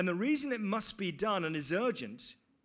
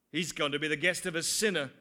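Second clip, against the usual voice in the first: louder, quicker grumbling line from the crowd; 2 semitones lower, 4 dB louder, faster than usual. Acted. The crowd grumbling about Jesus visiting a sinner, quick. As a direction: grumble it like a sour bystander. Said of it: "began to mutter".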